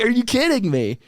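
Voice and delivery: high-pitched retold disbelief; incredulous. Retelling his answer to the judge, incredulous. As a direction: act out being floored by the news.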